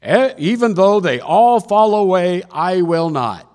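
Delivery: high, loud declaration, slowing on the refusal; emphatic vow. Acted. Peter swears loyalty to Jesus, loud emphatic vow. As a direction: proclaim it with full conviction.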